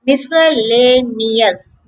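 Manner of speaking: Miscellaneous drawn out, syllables gently linked; slow model pronunciation. Shown as a demonstration. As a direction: say Miscellaneous slowly and evenly for learners. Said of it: "So repeat after me".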